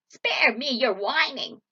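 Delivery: loud, harsh witch voice; scornful witch. A narrator's reading. Witch dismisses weeping Gretel, loud scorn. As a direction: cut her off loudly with contempt. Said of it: "said the witch".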